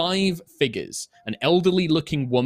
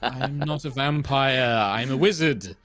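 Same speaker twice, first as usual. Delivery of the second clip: laughing wizard. Acted. Wizard reassures boy, amused.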